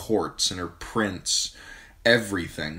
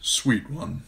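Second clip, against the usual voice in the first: gentle father; 4 semitones higher than usual. A narrator's reading. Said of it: "her father said gently".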